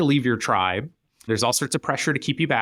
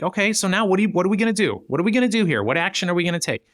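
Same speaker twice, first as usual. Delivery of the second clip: no-nonsense push to action; 4 semitones higher than usual. Retold or imitated. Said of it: "And then it's like".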